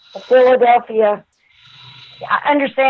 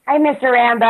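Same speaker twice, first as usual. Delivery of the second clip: country twang; 3 semitones higher, faster than usual. Retold or imitated. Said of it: "I got that little country twang".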